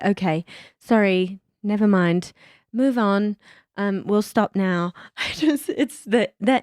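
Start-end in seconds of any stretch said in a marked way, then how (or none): 0.0-4.9 put-on polite British accent. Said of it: "the Brits are so polite".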